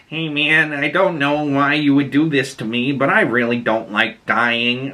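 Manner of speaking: lightly voiced meek pushover; a hint of timid, reluctant pleading; mild Mickey seventeen. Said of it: "like, this mild".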